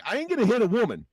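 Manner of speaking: mock tough line. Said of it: "I was like".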